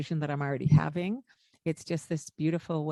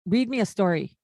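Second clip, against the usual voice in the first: blunt demand; 2 semitones higher, 4 dB louder than usual. Retold or imitated. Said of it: "he might come up to me and say".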